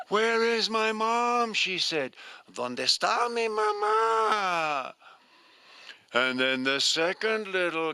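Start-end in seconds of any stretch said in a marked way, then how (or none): 0.1-1.5 put-on baby bird. Baby bird calls for mother. 2.5-4.9 put-on crying baby bird.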